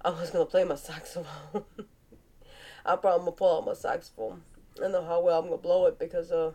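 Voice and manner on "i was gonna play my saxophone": corrected with a laugh; laughing rephrase. Real, not acted. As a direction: laugh through the fixed wording. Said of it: "That didn't sound right".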